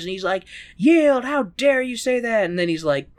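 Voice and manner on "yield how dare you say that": higher, slow, drawn-out outrage; mock indignation. Lancelot standing over his accuser, mock indignant demand. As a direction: play an affronted knight demanding surrender.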